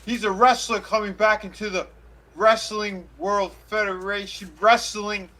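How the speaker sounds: lightly mocking, halting wrestler speech; imitated wrestler promo. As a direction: stumble through the promo, stretching the last words. Imitating Sid's botched promo.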